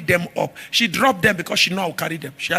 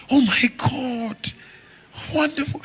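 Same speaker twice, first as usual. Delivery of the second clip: mock delight; 5 semitones higher, slower than usual. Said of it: "And she would like".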